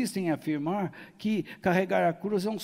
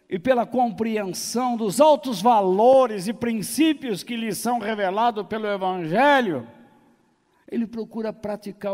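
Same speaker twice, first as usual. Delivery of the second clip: loud, raised pulpit delivery; forceful preaching; 6 semitones higher, 8 dB louder than usual. Real, not acted. Pregação em força total. (pregação forte, voz elevada)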